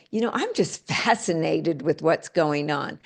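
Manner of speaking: fascinated, laughing. Shown as a demonstration. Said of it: "Whereas if we said".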